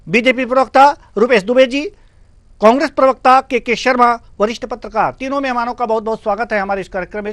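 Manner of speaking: loud, high, bright TV anchor intro; news anchor. Acted. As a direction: announce the guests like a news host.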